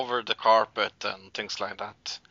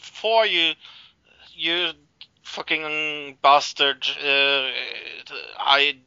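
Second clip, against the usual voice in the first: raised, pleading accusation; angry. Retold or imitated. Woman accusing her lover, angry. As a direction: throw the blame at him. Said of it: "And she gets really angry".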